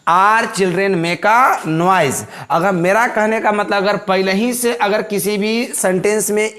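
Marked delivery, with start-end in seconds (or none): 0.1-2.2 put-on "Are children make a noise" read very slowly; teacher dictating the blank sentence; slow dictation. Shown as a demonstration. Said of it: "है ना".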